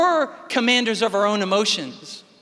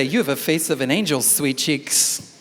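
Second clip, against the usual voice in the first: mock sweet; 9 semitones lower than usual. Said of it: "you could say".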